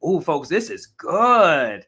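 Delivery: ordinary talk, nothing marked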